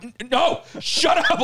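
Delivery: retold angry brush-off; aggressive. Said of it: "I was, like, aggressive".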